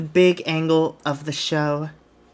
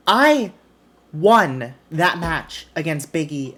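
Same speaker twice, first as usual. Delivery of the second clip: I and WON punched, then slower; emphatic claim; slower than usual. Acted. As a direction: lean hard on "I" and "won". Acted defiant wrestler claim in promo.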